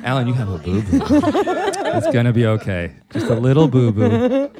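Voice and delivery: breathy porn star voice. Pretend. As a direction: breathe the words like a sultry doctor. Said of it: "very breathy".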